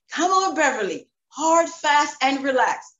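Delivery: coach on a blowhorn. Retold or imitated. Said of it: "he would use his blowhorn".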